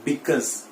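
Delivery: because said as /bɪkəz/, ending in a z sound; correct pronunciation. Shown as a demonstration. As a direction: model the right way, bikuz. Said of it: "क्या बोलना है?". (सही उच्चारण, बिकॉज़)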